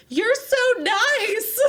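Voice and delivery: very high, slow, gushing; gushing fan voice. Retold or imitated. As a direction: gush like a starstruck fan. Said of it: "They're like".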